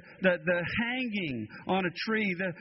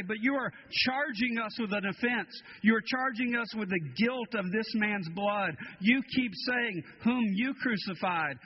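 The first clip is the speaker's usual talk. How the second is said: higher, pressing accusation; accusing council; 4 semitones higher than usual. Acted. The council accuses the apostles, indignant and pressing. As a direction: throw the charge back at them.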